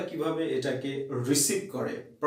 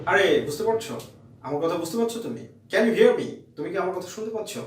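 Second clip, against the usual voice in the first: louder and higher, every word carried clearly; clear, projected speech; 4 semitones higher, 3 dB louder than usual. Shown as a demonstration. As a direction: call it out so it reaches the listener. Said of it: "frequency maintain করে এই কথাগুলো বলো". (স্পষ্ট, জোরে উচ্চারণ করে বলা)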